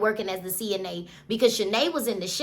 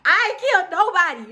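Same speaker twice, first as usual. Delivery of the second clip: defensive Vontavious; 9 semitones higher than usual. Retold or imitated. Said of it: "Vontavious like".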